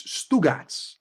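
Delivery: "Stugats" drawn out slowly in New York Italian slang; slow New York Italian-American "Stugats"; New York slang pronunciation. Shown as a demonstration. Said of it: "Indian doing New York accent".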